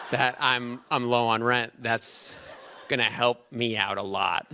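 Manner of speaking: words broken by laughter; laughing through it. Real, not acted. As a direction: talk while giggling at the joke. Joking about being low on rent.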